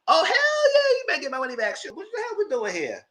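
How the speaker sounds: incredulous yell; fired-up outburst. Real, not acted. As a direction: get hyped and indignant at once. Outraged reaction to ten million.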